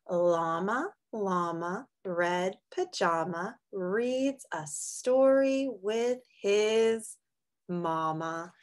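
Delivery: sing-song picture book read; reading to children. Acted. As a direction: read it gently to little kids. Reads a picture book aloud.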